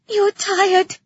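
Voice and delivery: put-on high, loud young girl's cry; tearful cry. A narrator's reading. Exhausted girl answers Asposia, tearful cry. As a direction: cry it out close to tears. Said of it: "the girl cried, sniffling back tears".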